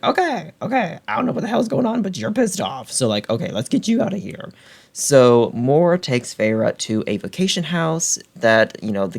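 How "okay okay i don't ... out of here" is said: flustered friend. Retold or imitated. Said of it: "Mor's like".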